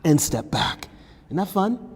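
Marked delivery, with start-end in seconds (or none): 1.3-1.9 playful sarcasm. Real, not acted. Sarcastic aside during hard pose.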